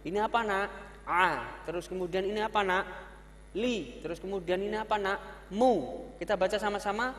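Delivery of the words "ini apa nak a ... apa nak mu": lightly voiced teacher to pupil; teacher asking child. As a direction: coax the child to name the letter.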